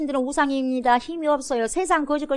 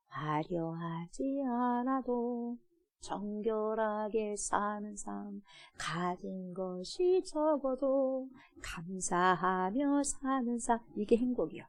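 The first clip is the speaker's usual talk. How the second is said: soft and very slow; gentle; 3 semitones lower, 10 dB quieter, much slower than usual. Acted. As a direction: lay each phrase down tenderly. Tender description of happy life. (부드럽고 아주 느리게)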